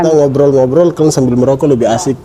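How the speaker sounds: talking around a cigarette; cigarette in mouth. Real, not acted. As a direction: speak with a cigarette between lips. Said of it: "Saya, saya sambil merokok ya". (bicara sambil menggigit rokok)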